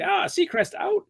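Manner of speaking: very high, slow, cool host sign-off; high, cool radio sign-off; Ryan Seacrest sign-off. Retold or imitated. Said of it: "It's all high and cool".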